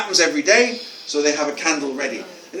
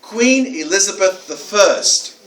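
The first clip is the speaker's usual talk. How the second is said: slow, evenly spaced imitated answer; deliberate boy's answer; 3 semitones higher, 3 dB louder, much slower than usual. Boy answering the author's question, slow deliberate answer. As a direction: give each word its time, stated as fact. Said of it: "this boy said".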